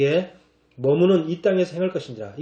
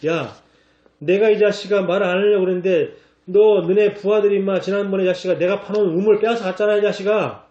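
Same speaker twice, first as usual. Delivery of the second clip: mock scolding; 3 semitones higher than usual. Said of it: "막 책망한 거야".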